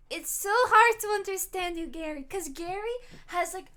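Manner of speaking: loud, exasperated complaint at Gary; exasperated teasing. Real, not acted. Teasing friend Gary on stream.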